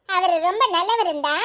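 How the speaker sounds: laughing as she repeats the words back; mother laughingly throws the daughter's words back; teasing echo. Acted. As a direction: tease her with a chuckle. Mother echoes daughter mockingly.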